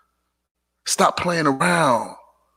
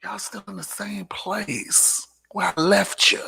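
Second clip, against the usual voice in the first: mocking whisper; 4 semitones higher, 5 dB quieter than usual. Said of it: "I be looking like".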